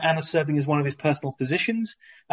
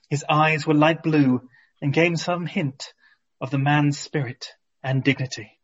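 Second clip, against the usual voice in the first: lightly voiced swooning princess; sexy Byzantine princess. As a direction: read it like an admiring royal lady. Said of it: "in my finest, um, sexy Byzantine princess voice".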